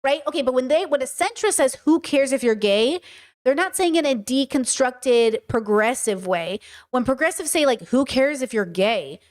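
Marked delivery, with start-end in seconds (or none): 1.9-3.0 centrist shrug. Retold or imitated. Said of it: "Tonality differences". 7.9-9.2 progressive dismissal. Retold or imitated. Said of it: "Tonality differences".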